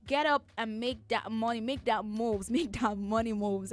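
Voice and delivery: pumped-up hype speaker; business motivational speaker. Pretend. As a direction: sell it like a hype coach. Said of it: "I wanna sound like a business motivational speaker right now".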